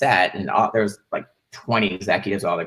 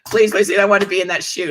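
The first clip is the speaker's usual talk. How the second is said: mock begging; 9 semitones higher than usual. Begging the director.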